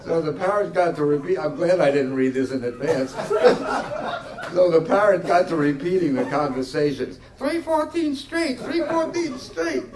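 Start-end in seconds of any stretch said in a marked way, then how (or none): 3.2-7.2 fighting real giggles while reading; laughing through it. Real, not acted. Reader cracking up mid-story. 7.4-9.9 squawking parrot, much higher and slow. Retold or imitated. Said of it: "this parrot screaming the numbers".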